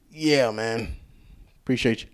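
talking with the hiccups; hiccuping between words. Real, not acted. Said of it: "I got the hiccups".

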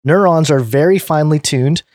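clear, lifted read-aloud voice; presenter reading from a written piece; article read aloud. Real, not acted.

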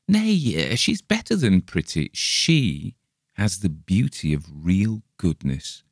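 proud suitor praising his sweetheart; a hint of a smitten German fiancé; lovestruck young German.

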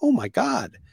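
high-pitched alarmed Karen gasps; mock a panicky Karen, pitch way up. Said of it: "in the best Karen voice I had in my head".

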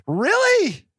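high, incredulous "Really?"; doubtful, unimpressed; skeptical. Retold or imitated. Skeptical reply to praise.

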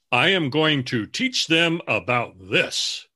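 lightly voiced lecturing writer, a bit slow; a hint of a sermonizing know-it-all; mock preachy. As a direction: act out a self-important teacher. Preachy writer's intent mimicked.

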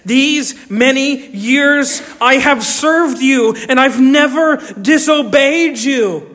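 put-on older son reciting his service to his father, aggrieved; whiny self-justifying son. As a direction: list every chore to prove you earned it. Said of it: "Notice what he says".

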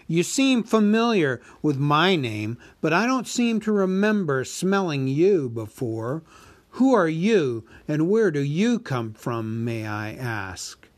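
a huge dragon toying with the thief; dragon Smaug. Acted. Narrator voices Smaug.

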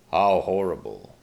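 a touch of a shocked king; king's voice. Acted. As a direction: say it with mild royal dismay. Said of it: "the king said".

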